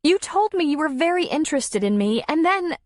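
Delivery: high, pleading, close to crying; tearful pleading. A narrator's reading. Darla pleading with Tom, tearful and high. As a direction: beg him to explain. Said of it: "Her eyes filled with tears".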